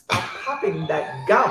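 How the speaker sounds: laughing. Real, not acted. Teasing co-host about gum.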